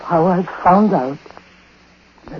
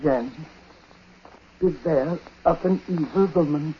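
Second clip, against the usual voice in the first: put-on ominous old man; 5 dB quieter than usual. Ominous dying warning.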